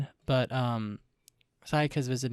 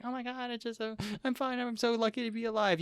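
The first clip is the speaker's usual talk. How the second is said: high-pitched, teary mock Madoka; tearful Madoka; 10 semitones higher than usual. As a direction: play the weepy girl laughing through tears. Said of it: "And then she's like".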